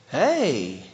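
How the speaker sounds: drawn-out lovestruck hey; flirty hey. Shown as a demonstration. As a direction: say hey like you are smitten. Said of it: "spring turns one's fancy to thoughts of love".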